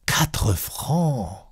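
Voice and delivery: indignant. Acted. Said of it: "indignée".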